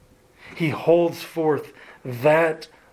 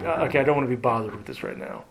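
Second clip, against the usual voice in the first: reluctant grumble; much faster than usual. Retold or imitated. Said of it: "times in which you're like".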